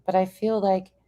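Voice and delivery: high mocking voice of her friend; mocking imitation. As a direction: parrot her words in a silly high voice. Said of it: "earlier you were like".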